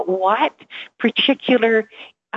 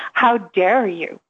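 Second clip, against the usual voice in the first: slow indignant; slower than usual. Retold or imitated. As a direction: say How dare you slowly with mock outrage. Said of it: "I thought".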